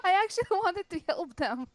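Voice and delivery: half laughing, half sobbing; laugh-crying. Real, not acted. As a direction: crack up while protesting. Laugh-crying over failed plan.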